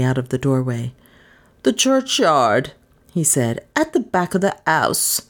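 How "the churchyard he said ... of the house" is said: afraid. Acted. Frightened policeman backs away.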